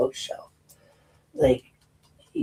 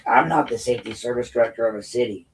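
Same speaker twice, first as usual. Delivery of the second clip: normal talking voice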